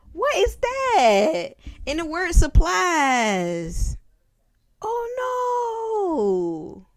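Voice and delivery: high, hammed-up wailing cry; mock dramatic outcry. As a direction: overact a shocked diva. Dramatic mock outcry over film.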